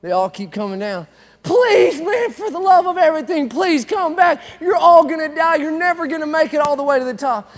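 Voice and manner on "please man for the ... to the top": high, loud shouted pleas; frantic shout. Retold or imitated. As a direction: scream at them to come back. Crowd begging climbers back.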